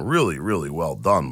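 usual speaking voice

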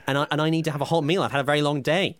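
rising, indignant complaint about the hot meal; hammed-up grievance to his co-host; mock outrage. Skit angry co-host.

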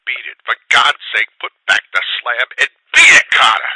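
loud, desperate begging cry; a pitiful frightened plea; piteous cry. A narrator's reading. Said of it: "a piteous cry from Warren".

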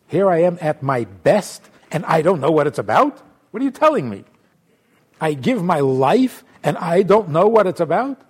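outraged that it's not enough; indignant protest. Acted.

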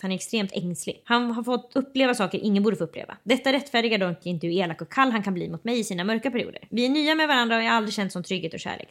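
soft, even read of a listener question; reading a letter aloud. Acted. (lugn uppläsning av lyssnarbrev)

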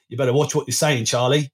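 lightly put-on Cockney; Cockney accent. Host quoting a bad film accent, in mock Cockney. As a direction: imitate the film line with a touch of Cockney. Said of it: "can't not say this in a Cockney accent".

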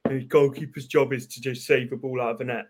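lightly voiced old man; a hint of a grumpy old man. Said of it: "try and do an old man voice".

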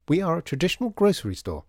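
high, loud interrupting shopkeeper; cutting in. Acted. Shopkeeper cutting off Mister M, high and insistent. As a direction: jump in over a would-be speech. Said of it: "cutting him off".

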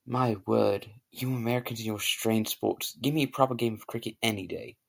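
put-on posh British accent. The Englishman scoffs at American sports, in a British accent. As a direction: play the proper English gent. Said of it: "I have a very good British accent".

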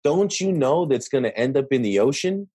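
lightly condescending question, slight rise at the end; hint at talking down to someone; understated know-it-all tone; mild condescension. Retold or imitated. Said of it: "you can hear Josh's tone of voice when he says".

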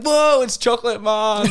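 high, slow, loud cheering call; mock excited greeting. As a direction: hail him like a celebrity, grinning. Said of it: "The, the full air hostess staff come over to us".

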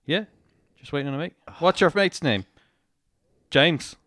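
put-on amateur go at an Australian accent; terrible Australian accent. Policeman quizzing hammered driver, bad Australian accent. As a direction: mimic an Australian back-and-forth, badly. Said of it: "That's a terrible accent".

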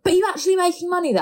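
high, fast prying question; nosy middle-aged woman. Retold or imitated. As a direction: imitate a nosy older woman. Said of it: "she's, like, a middle-aged woman".

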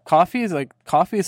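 "coffee" as said on Long Island. Shown as a demonstration. Contrasting Long Island with New York City, local "coffee" vowel. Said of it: "New York City is coffee".

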